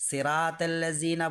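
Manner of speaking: সেরাতাল্লাযিনা as "seraa-tellazeena"; wrong, unrounded সেরাতাল্লাযিনা; common mispronunciation. Shown as a demonstration. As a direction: say সেরাতাল্লাযিনা with thin s, e vowel and light t. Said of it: "বলি".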